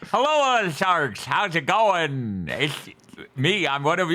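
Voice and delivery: talking without moving the lips; lips not touching. Acted. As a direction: keep the lips apart as you speak. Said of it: "talk without letting my lips touch".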